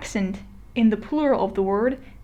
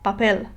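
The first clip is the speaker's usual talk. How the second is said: papel with stress on PEL; last syllable stressed. Shown as a demonstration. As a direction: lean on the end of papel. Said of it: "I could demonstrate this on".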